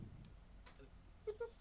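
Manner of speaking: robotic boop boop beeps; beeping. Shown as a demonstration. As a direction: imitate a little machine beep. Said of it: "beeps a little".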